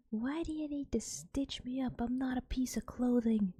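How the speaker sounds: a hint of an offended old man protesting; indignant drunk grandpa. Grandpa's retort in English.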